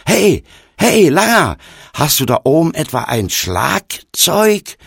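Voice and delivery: high-pitched, loud hailing question; loud calling up. A narrator's reading. Stranger trying again between laughing fits, calling up loudly. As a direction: hail the boy above.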